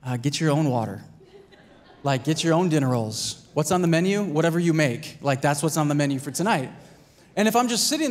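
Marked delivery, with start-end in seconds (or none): 0.1-6.7 lower, laughing, lightly voiced wife brushing him off; wife laughing off her husband's demands in a lower voice; wife's retort. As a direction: toss it back with a chuckle, a hint of the wife. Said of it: "My wife would be like".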